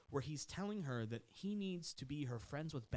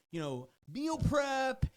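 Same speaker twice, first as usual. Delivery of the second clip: slow mock innocence; 12 semitones higher, 9 dB louder, much slower than usual. Mocking trainer's excuse.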